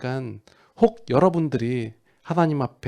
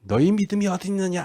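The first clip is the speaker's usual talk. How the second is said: higher-pitched scolding question; mock reproach; 7 semitones higher than usual. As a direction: lightly tell them off, pitched up. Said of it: "제자들을 핀잔하는 장면일까요". (핀잔주듯 높은 목소리로)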